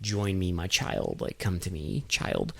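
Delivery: low, soft, ghostly cult leader call; soft echoing dream voice. Retold or imitated. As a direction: murmur it like a beckoning ghost. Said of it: "and being like".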